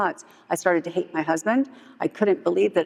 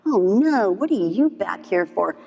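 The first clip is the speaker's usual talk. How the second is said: complaining; 2 semitones higher, slower than usual. Retold or imitated. Famous player complaining about the returning dealer, dismayed. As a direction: imitate a customer griping at the dealer. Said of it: "she started complaining about me".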